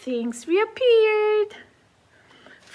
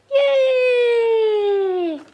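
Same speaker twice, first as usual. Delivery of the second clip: cheer; 2 semitones higher than usual. Acted.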